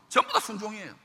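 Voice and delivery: loud, high proclamation; shouted climax. Acted. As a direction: cry it out triumphantly. Climactic shout after drill.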